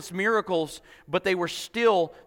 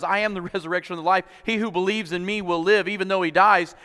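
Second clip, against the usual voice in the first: quick, with a laugh; faster than usual. Retold or imitated. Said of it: "he goes".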